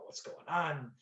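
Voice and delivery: lightly voiced, relaxed old pro saying hello; quiet, casual take on his friendly greeting; imitating James Caan. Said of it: "That's the way he talks".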